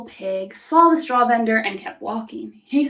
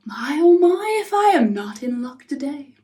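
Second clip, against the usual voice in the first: delighted wolf. Acted. Wolf smells a meal.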